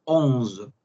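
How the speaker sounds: Onze repeated as onz, final E silent; French onze. Shown as a demonstration. Teacher repeats for students: Onze ending in buzzing z. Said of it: "La E al final no suena".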